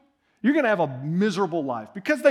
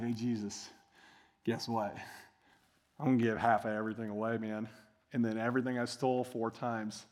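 casual Zacchaeus; 9 semitones lower, 10 dB quieter than usual. Retold or imitated. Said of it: "He's like".

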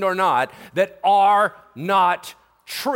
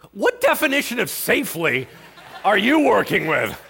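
incredulous. Acted. Mock challenge to the text.

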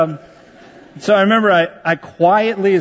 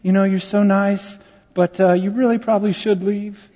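imitating a polite mother, slightly higher; nice mom; 4 semitones higher than usual. Mother asking the visiting pastor to go, nicely. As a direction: let someone down nicely. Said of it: "her mom was so nice".

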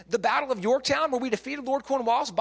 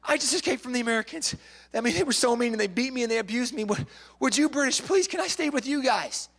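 pretend runaway. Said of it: "pretending to be an escaped slave".

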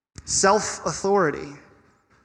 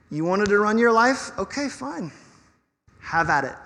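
sarcastic giving in; 3 semitones higher than usual. Acted. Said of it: "a picture that says".

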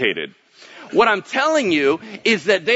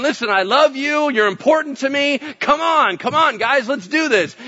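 God pleading with the Amorites, higher and coaxing; 8 semitones higher than usual. Retold or imitated. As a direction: coax them back like a loving parent.

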